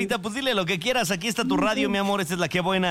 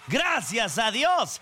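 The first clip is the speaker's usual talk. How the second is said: cheering shout; 5 semitones higher, much slower than usual. Real, not acted. Radio hosts cheer Friday.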